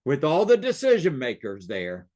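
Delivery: "all the decision makers" firmly repeated after a pause; insistent weight on "decision makers"; pointed repetition. Shown as a demonstration. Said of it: "Did you hear what I just said?".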